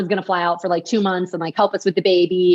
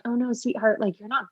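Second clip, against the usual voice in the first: soft, gentle sweetheart; a nurse softly setting her straight; 5 dB quieter than usual. Retold or imitated. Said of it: "they're like".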